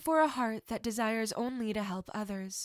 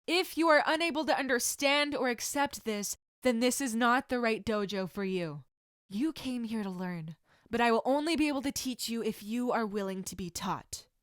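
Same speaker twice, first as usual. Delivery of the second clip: a firm, slightly louder stern teacher voice; stern sensei; 2 semitones higher, 5 dB louder than usual. Acted. Sensei addressing new students, firm and stern. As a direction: introduce yourself with authority.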